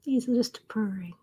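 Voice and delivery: slow soft whisper; hushed slow whisper. Real, not acted. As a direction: whisper so you don't disturb the cat. Whispering about purring cat.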